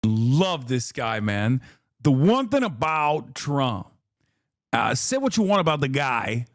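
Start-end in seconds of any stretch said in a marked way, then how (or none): 2.0-6.5 lightly voiced imitation of the host, lower; low mock of the host's serious line; lower mock PBD voice. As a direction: ape the host's earnest pitch. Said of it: "imitating host's catchphrase".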